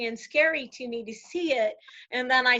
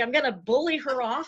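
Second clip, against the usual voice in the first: plain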